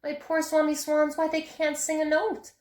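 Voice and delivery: lightly voiced Lorax complaining; grumbling Lorax. A narrator's reading. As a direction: scold him like a fussy little guardian. Lorax scolding in character.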